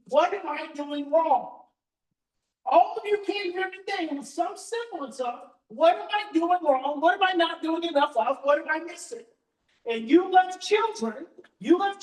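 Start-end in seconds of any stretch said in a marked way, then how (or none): 0.1-9.3 anxious questioning. Pretend. Voicing anxious parents' questions.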